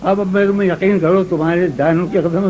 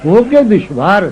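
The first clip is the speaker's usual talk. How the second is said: ghazal recitation; 3 semitones lower than usual. Acted. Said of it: "یہ غزل سنو".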